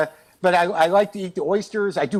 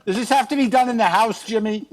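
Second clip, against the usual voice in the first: higher, nagging wife voice; lightly voiced annoyed wife; exasperated wife; 4 semitones higher than usual. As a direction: plead with Jimmy, pitched up. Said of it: "your wife was like".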